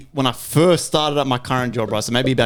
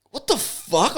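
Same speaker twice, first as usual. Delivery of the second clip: higher, softer bewildered aside; baffled disbelief; 7 semitones higher, 6 dB quieter, slower than usual. Retold or imitated. Worker recalling the driver's sudden outburst, quietly baffled. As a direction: retell it as a stunned thought.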